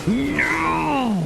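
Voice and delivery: sudden high squeal of protest; high exclaimed no. Real, not acted. Streamer protesting to his friend, squealing no high. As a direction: yelp it out in mock outrage.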